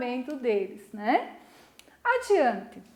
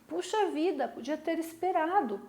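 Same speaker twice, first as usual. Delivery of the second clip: disappointed; 4 semitones higher than usual. Shown as a demonstration. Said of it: "Eu estou desapontada".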